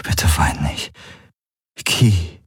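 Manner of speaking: tender, unvoiced plea; whispered. Man comforting his crying partner, whispering. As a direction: whisper it close to the ear. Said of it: "flüsterte er ihr ins Ohr".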